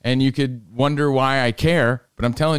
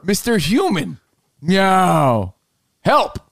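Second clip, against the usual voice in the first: lightly higher pleading cat; 4 semitones higher, much slower than usual. Retold or imitated. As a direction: beg like a little cat. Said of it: "He was saying to me".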